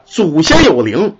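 祖先有灵 spoken very slowly, each syllable drawn out; slow proverb. Shown as a demonstration. Storyteller quoting the proverb to listeners, slow deliberate 祖先有灵. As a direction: lay out 祖先有灵 slowly like a saying. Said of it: "俗话说呀".

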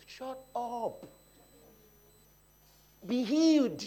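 a hint of a stern Jesus; commanding Jesus. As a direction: speak as Jesus cutting off doubt. Jesus voiced rebuking the doubt.

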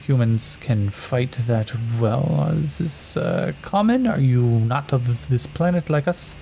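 measured alien warrior woman, slow and formal; a stiff, curious warrior probing a stranger. Acted. Warrior woman asks Yakim about his fighting, slow and formal.

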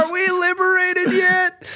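high, slow, laughing plea; laughing mock captive. Host laughing as a stranded prisoner asking the guest for news. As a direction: giggle through the captive's question.

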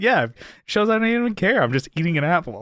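high, breezy fake casual; mock nonchalant. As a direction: act way too cool. Mocking casual guy.

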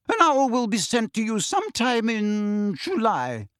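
brisk and formal, lay down the rules; stern teacher. Acted.

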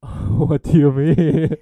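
loud, drawn-out question through real laughter; laughing protest. Real, not acted. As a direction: laugh it out slowly and loudly.

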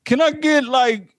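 a trucker ordering at the drive-thru; rough customer ordering. Pretend. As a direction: bark an order into the speaker. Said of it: "you hear the trucks pull up".

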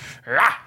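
short imitated animal-like "rah"; animalistic mouth noise. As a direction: demonstrate an animalistic mouth performance. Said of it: "doing a lot of mouth performing".

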